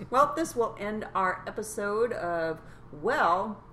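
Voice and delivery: slow words through leftover laughter; laughing sign-off. Real, not acted. Co-host ends the episode after cracking up, laughing sign-off. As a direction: close the show while still giggling. Signs off while still laughing.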